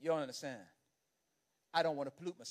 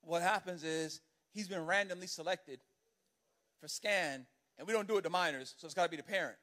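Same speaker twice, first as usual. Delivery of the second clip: officious TSA agent; 2 semitones lower than usual. Retold or imitated. TSA agent explaining policy to father, dry official tone. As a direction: recite policy like a bored official.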